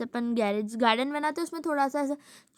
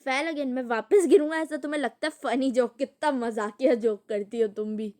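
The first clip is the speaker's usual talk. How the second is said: louder, sarcastic dad; mocking dad; 4 dB louder than usual. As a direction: scoff at mom's silly joke. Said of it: "dad कहते हैं".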